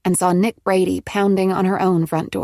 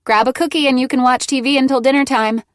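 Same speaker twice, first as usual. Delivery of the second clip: shaking with emotion; 5 semitones higher, 5 dB louder than usual. A narrator's reading. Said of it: "her voice shaking with emotion".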